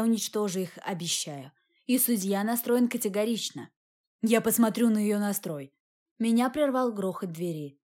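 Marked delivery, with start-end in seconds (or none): none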